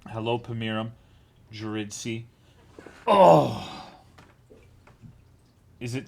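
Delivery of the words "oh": surprised oh. Real, not acted. Sudden loud exclamation while reading chat.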